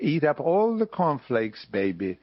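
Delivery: put-on hammy Jewish-accented Mama telling a bedtime fairy tale; Jewish dialect mama. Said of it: "how he pitched the Nize Baby".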